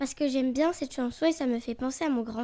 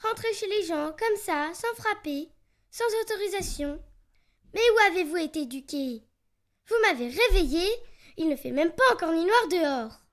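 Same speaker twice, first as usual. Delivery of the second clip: loir énervé qui gronde; gronder, un peu plus fort; rudely awakened. Acted. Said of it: "très énervé". (réveillé, agacé)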